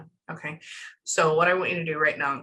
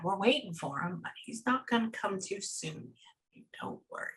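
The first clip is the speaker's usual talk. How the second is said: very soft, sinking into a whisper; imitating his hushed voice; 9 dB quieter than usual. Medium relays waiting for dad, fading whispered imitation. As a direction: let the reassurance fade to near nothing. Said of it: "That's how he sounds".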